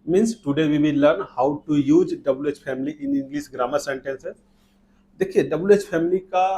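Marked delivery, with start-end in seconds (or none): 0.1-4.4 slow, deliberate teacher voice; slow lesson intro. Shown as a demonstration. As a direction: spell it out slowly for the class. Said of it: "teacher introduces lesson slowly". (धीमी, साफ़ शिक्षक की आवाज़)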